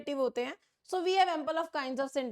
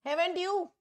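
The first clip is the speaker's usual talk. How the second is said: "Haven't you?" with the pitch rising at the end; 4 semitones higher, much slower than usual. Shown as a demonstration. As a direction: ask "Haven't you?" rising up like a pressing teacher. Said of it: "tone rise करेगी अपनी". ("Haven't you?" चढ़ते सुर में)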